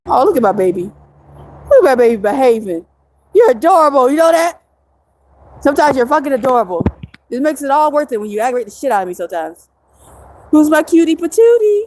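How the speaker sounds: lovey dovey. Real, not acted. Gushing over the dog.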